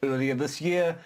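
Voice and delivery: deliberate newsreader cadence with lifted phrases; measured announcer delivery, falling at each close; news read. Acted. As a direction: read it out like a wry news bulletin. Reads a mock news item.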